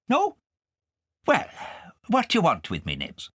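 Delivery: high, sly friendly voice; fox's voice. A narrator's reading. The fox welcoming Nibs and Kay, high and sly. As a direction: greet them like a smooth fox.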